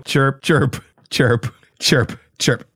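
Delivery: weak cricket chirping. Pretend. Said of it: "My cricket is not good".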